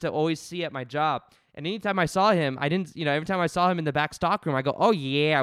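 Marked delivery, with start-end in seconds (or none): 4.8-5.4 Pauly D catchphrase. Retold or imitated. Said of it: "We would just always say it to each other".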